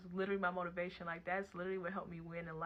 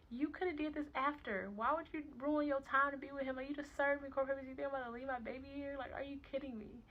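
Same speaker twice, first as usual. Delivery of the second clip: high, raised voice, incredulous scolding; retold telling-off, heated and pitched up; angry confrontation; 7 semitones higher, 5 dB louder than usual. Mother confronting baby's father after being served, indignant.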